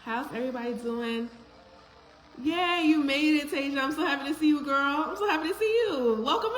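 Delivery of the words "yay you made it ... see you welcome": high, bright squeal of welcome; excited greeting. Real, not acted. Host thrilled as Tasia joins the stream, excited welcome. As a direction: gush like your best friend just walked in. Greeting a friend joining live.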